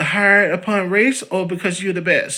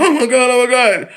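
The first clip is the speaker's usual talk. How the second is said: mock shock; 9 semitones higher, 7 dB louder than usual. Coworkers mocked in disbelief.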